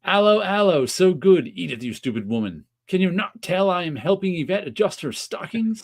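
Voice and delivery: hammed-up René, the café owner, with a French accent, high at times; René from the show. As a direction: lightly mimic a flustered Frenchman making excuses. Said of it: "That was also the joke".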